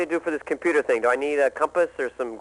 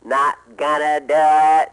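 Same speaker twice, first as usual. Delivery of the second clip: slow, a little louder Bush voice; George Bush impression; 3 semitones lower, 4 dB louder, much slower than usual. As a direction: drag it out like the president. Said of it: "do George Bush".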